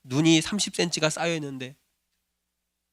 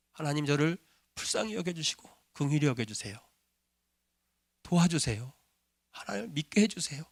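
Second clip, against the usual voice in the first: a touch of tears in a humble plea; tearful retold prayer. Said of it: "눈물이 났대요".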